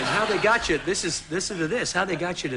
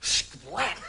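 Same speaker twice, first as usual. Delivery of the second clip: spoken splat sound effect; imitated bear pounce; 2 semitones higher, 4 dB quieter than usual. Guest acting out the bear knocking him down, imitated splat. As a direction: make the noise of a pounce. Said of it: "the bear just went".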